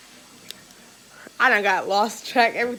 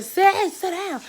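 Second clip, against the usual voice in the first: high shrill-free yelled order, much higher; screaming bus driver; 10 semitones higher, 4 dB louder, much slower than usual. Retold or imitated. Driver yelling at kids to sit, loud and high. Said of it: "the bus driver screaming".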